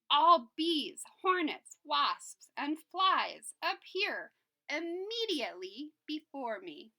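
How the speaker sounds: furious command. Acted. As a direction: roar each word as a furious king. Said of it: "he commanded with fury".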